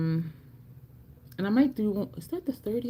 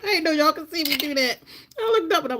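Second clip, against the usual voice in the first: higher, talking through laughter; laughing embarrassed; 10 semitones higher, 3 dB louder, faster than usual. Real, not acted. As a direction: laugh while confessing. Caught eating crumbs on camera.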